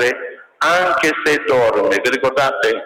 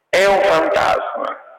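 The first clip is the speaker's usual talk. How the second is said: raised, slowed cry of mild alarm; frightened cry; 7 semitones higher than usual. A narrator's reading. Preacher voicing the disciples' fright at a ghost, mild alarm.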